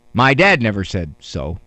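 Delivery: ordinary talk, nothing marked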